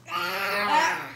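sudden loud yelp; startled cry. Real, not acted. Toddler grabs something.

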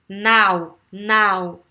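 "now" with French A sliding into O; A-O glide. Shown as a demonstration. Teacher checking students hear it, emphatic "now". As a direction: model "now" firmly, both vowels audible. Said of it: "c'est le son français. A, O".

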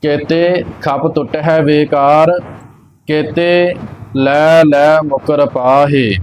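ਕੇਤੇ, a clear break, then the rest; pause after ਕੇਤੇ. Shown as a demonstration. Teacher showing where to rest, pause after ਕੇਤੇ. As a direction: stop briefly right after ਕੇਤੇ. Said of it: "ਕੇਤੇ ਤੇ ਵਿਸ਼ਰਾਮ ਲੱਗਣਾ ਹੈ".

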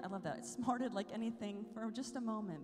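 low, hushed storytelling; soft, reflective reading; quiet story reading. A narrator's reading. Reads a story passage, softening.

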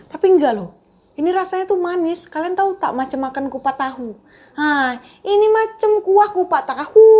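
surprised, taste not as expected. Real, not acted. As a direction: react with genuine surprise. (terkejut dengan rasanya)

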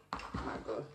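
breathless whisper of delight; whispered awe. Real, not acted. Tasting delicious seafood.

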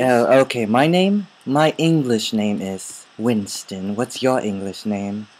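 mock Englishman introducing himself; put-on English accent. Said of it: "an English accent".

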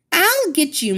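a hammed-up villain threat; cackling threat. Witch's parting threat.

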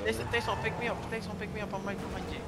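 urgent high call to a teammate. Real, not acted. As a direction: call his name for help. Calling teammate for revive.

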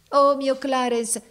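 high, loud, slow cry; exclaiming. Acted. Woman in the crowd cries for Clarence, high, loud and slow. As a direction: cry out his name.

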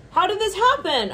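high, baffled question; mock bewilderment. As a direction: act out stunned confusion. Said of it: "It's like".

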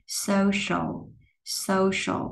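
"social" as SO-shul, plain s then strong sh; light then heavy S. Shown as a demonstration. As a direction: say "social" twice, drilling s then sh. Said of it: "âm sờ bên đây là âm sờ nặng". (social sờ nhẹ rồi sờ nặng)

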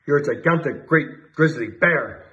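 chief shouting, slow and drawn out; shouted. A narrator's reading. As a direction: stretch out great grizzly bear slowly. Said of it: "shouted the chief of police".

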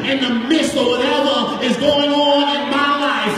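sung, tuneful preacher's chant over the organ; rising sing-song sermon cadence, building the crowd; whooped preaching. Acted. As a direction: ride the music and chant each line like a Black church whoop.

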